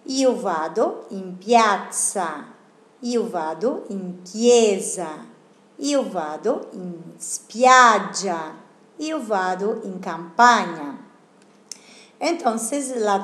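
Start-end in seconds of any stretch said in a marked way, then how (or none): 0.0-11.0 teacher's model repetition. Shown as a demonstration. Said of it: "Otra vez".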